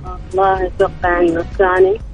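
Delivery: ordinary talk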